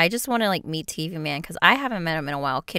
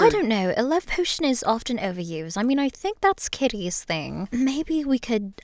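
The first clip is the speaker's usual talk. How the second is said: put-on British accent; 2 semitones higher than usual. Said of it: "the Southern and the British one".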